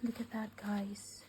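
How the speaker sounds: hushed, breathless look at this; soft amazed whisper to the viewers; awed whisper. Real, not acted. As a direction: whisper it like you can't believe it. Gasping over a gift unboxing.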